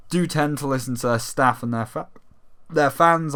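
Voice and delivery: talking through hiccups. Real, not acted. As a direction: speak with hiccups. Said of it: "I'm getting the hiccups now".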